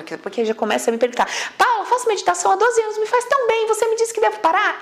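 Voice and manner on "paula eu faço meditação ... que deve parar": higher-pitched mock objection from a follower; indignant viewer. Follower protesting to Paula about meditation, mock-indignant high voice. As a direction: play a worried follower pushing back.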